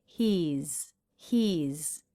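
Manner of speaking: "he's" ending in a buzzing z; voiced Z ending. Shown as a demonstration. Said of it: "is a Z sound".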